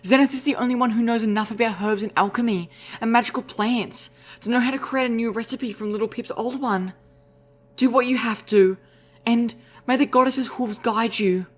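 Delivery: high, grave unicorn mare; solemn mare voice. Acted. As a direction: give a solemn blessing. Velvet's solemn charge.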